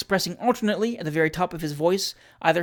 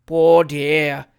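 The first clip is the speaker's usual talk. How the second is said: compassionate; 7 dB louder than usual. Acted. Landlady pitying the supposed madman, gently compassionate. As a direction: pity him like a sick child. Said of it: "said the compassionate Missus Williamson".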